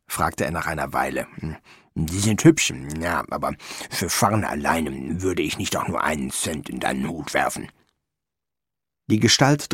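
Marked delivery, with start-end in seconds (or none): 1.9-7.7 hint of a grumbly gnome, low and soft; lightly voiced critical gnome. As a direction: sound like an unimpressed gnome, hesitating.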